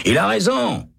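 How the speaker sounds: shout. A narrator's reading. Prisoner Hennessy backing the guard, high shout. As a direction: call out from the next cell. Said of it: "crie Hennessy".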